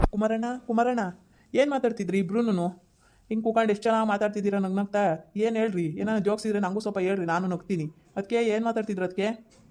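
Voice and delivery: lightly voiced nosy relative, teasing; teasing brother-in-law. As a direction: call out and tease them. Same character calling out teasingly.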